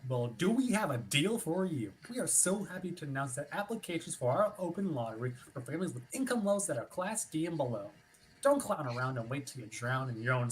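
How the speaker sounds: upbeat announcer pitch, punchy; radio ad read. Acted. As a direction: sell it like a cheesy radio spot. Radio commercial read in scene.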